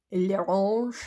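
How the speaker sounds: put-on playful French accent on "l'orange", rising; mock French. Listing her polish colours to viewers, mock French accent. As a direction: say "l'orange" like a joking French waiter. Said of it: "I'm turning French today".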